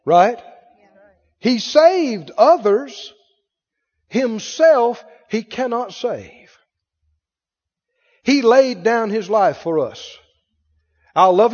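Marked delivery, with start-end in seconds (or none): 1.4-6.5 drawn-out, higher delivery; slow emphatic quote. Retold or imitated. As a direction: stretch each phrase out slowly. Repeats the priests' quoted taunt.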